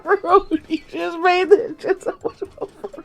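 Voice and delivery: high, laughing protest; cracking up mid-sentence. Real, not acted. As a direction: talk through helpless laughter. Helpless laughter.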